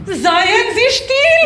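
high, drawn-out hush-order; slow, loud command. Acted. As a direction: order silence, stretched out. Yelling at inner voice.

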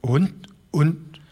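put-on high, halting old man's stammer; an old man stumbling over his words in shock. A narrator's reading. Old Broderson stammers his disbelief to the ranchers, high and halting. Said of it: "stammelte der alte Broderson".

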